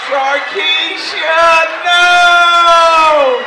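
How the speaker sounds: high shrieking yell of the name then no; shrieking quote. Retold or imitated. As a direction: scream it like the viral fight clip. Famous fight video quote yelled.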